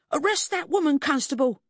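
high-pitched indignant squeal; man's voice shot up into a squeal. A narrator's reading. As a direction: squeal the order at the constable. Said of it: "he squealed".

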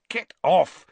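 shouted, high and loud; startled boy shouting in the dark. A narrator's reading. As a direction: snap it out at the stranger. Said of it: "he said loudly".

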